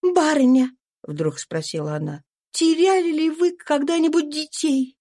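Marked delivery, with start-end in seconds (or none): 0.0-0.7 higher, tense voice of a runaway mother; fugitive mother's voice. A narrator's reading. Eliza voiced. 2.5-5.0 higher, tense voice of a runaway mother; fugitive mother's voice. A narrator's reading. Eliza voiced.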